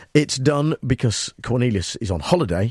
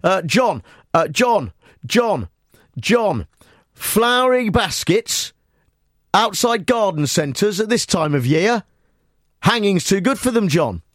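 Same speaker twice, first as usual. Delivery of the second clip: higher, slow, drawn-out mock indignation; mock outraged reaction; 7 semitones higher, slower than usual. Presenter voicing a mock reaction, high and slow. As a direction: play an exasperated caller ranting about baskets. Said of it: "I've got a reaction here".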